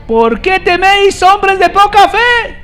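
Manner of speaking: "teméis" stretched, rebuking the disciples; Jesus' rebuke. Acted. Jesus scolding the frightened disciples, high, loud and slow.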